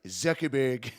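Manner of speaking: lightly imitated presidential pronunciation; a hint of his odd way with the name; Trump. Streamer recalling a rally speech, light Trump impression. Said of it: "miss the way he said every word".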